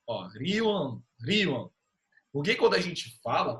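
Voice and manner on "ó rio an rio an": "Ryuan" run together as one syllable; sílabas juntas. Shown as a demonstration. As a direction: glide "Ryuan" into a single syllable. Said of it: "agora elas estão juntas". ("Ryuan" com as sílabas emendadas)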